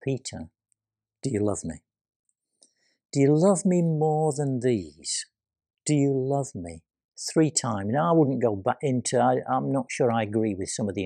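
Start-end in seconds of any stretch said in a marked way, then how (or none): 0.0-6.8 very gently. Acted. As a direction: ask it tenderly, like a friend. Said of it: "hears Jesus say very gently".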